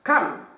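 «kam» con la A breve y algo más alta; A corta. Shown as a demonstration. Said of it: "por eso es la vocal corta". («kam» con vocal corta)

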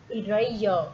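eraser as i-re-jo, falling; repeated model word. Shown as a demonstration. Teacher repeats eraser for the class, clearly. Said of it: "Mời các em đọc lại".

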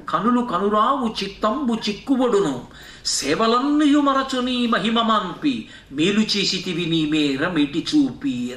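slow, drawn-out Telugu padyam; verse recitation. Acted. Preacher quotes the verse on Indra's blindness, chanted slowly. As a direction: recite the verse with long held vowels.

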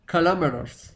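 KILOMETERS said kalameraars, American style; American English kilometers; American pronunciation. Shown as a demonstration. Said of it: "primero en americano".

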